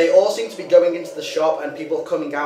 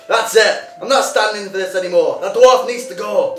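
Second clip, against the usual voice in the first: louder, higher angry declaration; fed-up outburst; 6 semitones higher, 7 dB louder than usual. Acted. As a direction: slam the decision down. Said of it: "He says".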